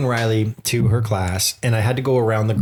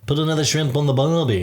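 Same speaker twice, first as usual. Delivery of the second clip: stock mock-Australian catchphrase; badly faked Australian twang; attempted Australian accent; 3 semitones higher than usual. Shown as a demonstration. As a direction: try a cartoonish Australian accent. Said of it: "No, if I do it like".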